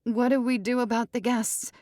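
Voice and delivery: high, loud pleading; cling to the promise; jilted bride insisting; wounded bride. Acted. Ruby asks.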